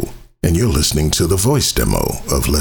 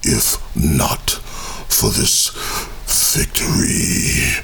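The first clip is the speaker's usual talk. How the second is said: epic trailer whisper; 3 semitones lower, slower than usual. Acted. Epic closing line of demo.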